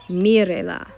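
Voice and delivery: "Mírela" with the first syllable stressed. Shown as a demonstration. Teacher showing where emphasis goes, first syllable of "Mírela" stressed. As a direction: lean on the "Mí" of "Mírela", then drop away. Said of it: "I need to know where that emphasis goes".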